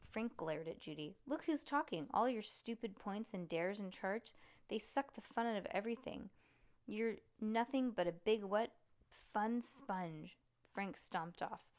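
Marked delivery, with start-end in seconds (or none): 1.3-10.4 angry. Acted. Frank angrily insults Judy.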